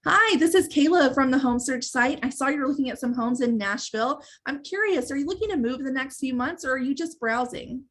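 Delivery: brighter, eager phone voice with a lift on curious; excited and interested. Shown as a demonstration. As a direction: sound genuinely keen to help this lead. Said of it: "good tonality and excitement and you sound interested".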